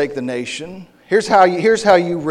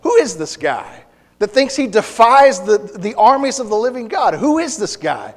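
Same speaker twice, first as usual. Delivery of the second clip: voicing David; 5 semitones higher than usual. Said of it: "he says".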